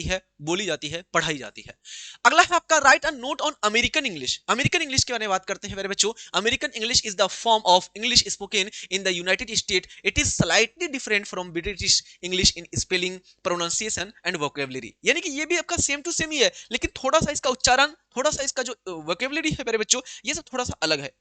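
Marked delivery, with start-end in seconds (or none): 6.4-14.9 measured dictation pace for the class; slow, deliberate textbook reading; slow reading aloud. Acted. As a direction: spell it out word by word for students. Reads textbook answer aloud slowly.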